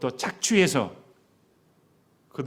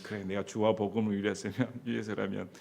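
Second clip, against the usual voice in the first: resolute vow. Pretend. Congregation imagined vowing to preach anywhere, bold and rising. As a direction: declare it with brave resolve. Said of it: "여러분은".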